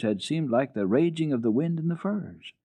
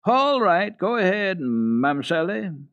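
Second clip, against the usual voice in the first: amused; 9 semitones higher, 4 dB louder, slower than usual. Acted. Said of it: "Sebastian then laughed so loud".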